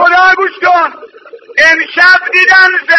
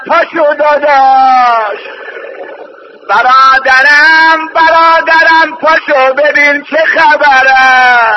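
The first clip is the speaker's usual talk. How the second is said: sister's desperate call; 3 semitones lower, slower than usual. Acted. Zainab waking brother Hassan.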